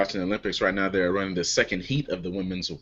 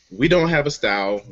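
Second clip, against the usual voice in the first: usual speaking voice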